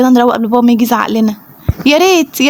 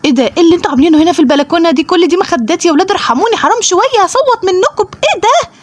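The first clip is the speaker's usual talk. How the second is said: mother scolding; 4 semitones higher than usual. Acted. Mother scolding kids over pillows.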